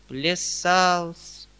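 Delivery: mournful. A narrator's reading. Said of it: "отвечал Гаврила плачевным тоном".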